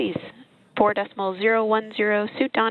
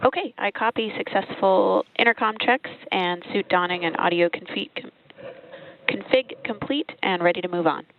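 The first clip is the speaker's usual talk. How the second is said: radio comms; 5 semitones higher than usual. Real, not acted. Mission control radio loop.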